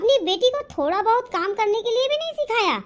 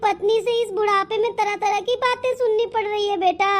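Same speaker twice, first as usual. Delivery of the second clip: acted crying. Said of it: "तुम रो क्यों रही हो".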